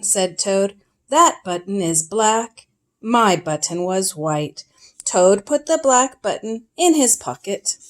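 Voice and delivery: gentle read-aloud storyteller voice; storybook reading. A narrator's reading. Parent reading Frog and Toad to a child, storytelling. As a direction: read it like a bedtime picture book.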